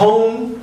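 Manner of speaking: "Home" with a rounded long O; American O. Shown as a demonstration. Teacher giving an example, American O in "Home". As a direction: say "Home" American-style, natural O glide. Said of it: "O americano fala O naturalmente".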